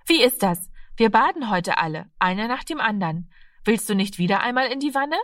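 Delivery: a hint of a lively mother making an offer; Mutter aus der Geschichte. (leicht angedeutete einladende Mutterstimme)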